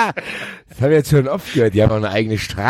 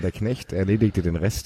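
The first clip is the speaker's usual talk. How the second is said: slow, quiet read; 3 semitones lower, 8 dB quieter than usual. Shown as a demonstration. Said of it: "sag doch mal den Satz".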